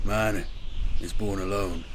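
measured ritual intonation, broken by a pause; solemn intoning. A narrator's reading. Apothecary begins the rite for his battle brother, intoning. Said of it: "Corpus intoned".

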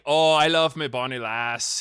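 hammed-up, funny Scottish accent; fake Scottish accent. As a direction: put on a joke Scottish lover's accent. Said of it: "as good of a Scottish accent".

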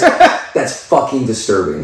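laughing. Real, not acted. Laughing at a disturbing topic.

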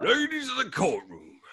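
mock Southern orator accent; Louisiana lawyer. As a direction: address the court as a Louisiana lawyer. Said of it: "it's like a Louisiana sort of guy".

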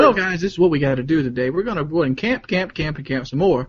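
host-style delivery in a non-Southern accent; professional accent. Shown as a demonstration. Showing off for co-hosts, professional non-Southern accent. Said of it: "Wings being professional accent".

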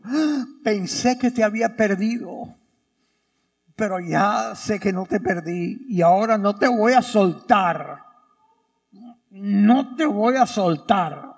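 gasp, then build to loud insistence; desperate relief. Acted. Acted Mary clinging to Jesus.

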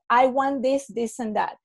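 mild flat demanding tone; a hint of a pushy negotiator; blunt demand. Shown as a demonstration. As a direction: state what you want without a smile. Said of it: "Much more different, the body language".

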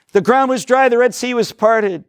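high-pitched wonder, slowing down; mock amazement. Teacher acts out students' Bible highlights, mock amazement. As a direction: marvel in an exaggerated student voice.

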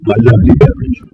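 talking right after a sip; words just after swallowing a drink; while sipping a drink. Real, not acted. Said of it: "Let me have a drink of my beverage".

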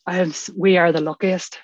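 real emotion rising, pitch lifting; moved, pausing to gather yourself; getting very emotional. Real, not acted. Speaker grateful for recovery after watching the sunrise, getting emotional. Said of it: "I'm getting very emotional".

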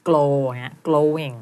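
glowing with a clear "gl", like "klo"; modelled pronunciation. Shown as a demonstration. Coach correcting a student's glowing, slow clear model. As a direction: say glow, then glowing, drawn out slowly. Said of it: "มันต้องเป็นเกลอ เหมือนแม่กลอง".

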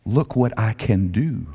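slow, self-satisfied boast; smug. Retold or imitated. Peter drying off in the boat, quietly smug. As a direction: savour each word with a smirk. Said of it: "got a smirk on his face and in his soul".

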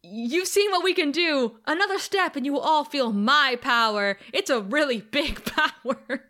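grand threat ending in a laugh; Willow, mock threat. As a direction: proclaim it as a mock menace. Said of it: "Willow says".

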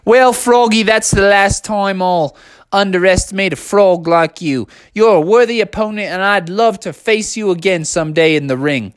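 lightly put-on gracious loser voice; a hint of a character voice, conceding; Kevin the kangaroo. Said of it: "And Kevin said".

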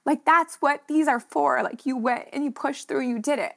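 fighting back tears while remembering her dad; emotional. Real, not acted. Talking about her late dad at his last race, near tears. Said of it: "I get so emotional about it".

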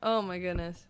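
breathless whisper after laughing. Real, not acted.

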